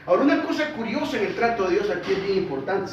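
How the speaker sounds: usual speaking voice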